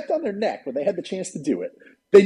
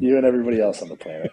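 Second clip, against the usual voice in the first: laughing; 6 semitones lower, faster than usual. Real, not acted. Laughing reply.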